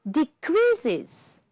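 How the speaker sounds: "Decreases" high-pitched, ending in a full IZ syllable; three syllables. Shown as a demonstration. Teacher proving there are three syllables, final IZ sounded. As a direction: say "Decreases" as de-CREAS-iz, all three syllables clear. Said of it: "this is why we have three syllables".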